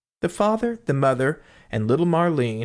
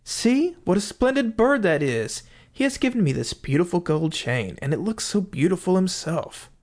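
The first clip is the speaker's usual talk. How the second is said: delighted husband; 5 semitones higher than usual. Acted. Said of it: "He went inside and said".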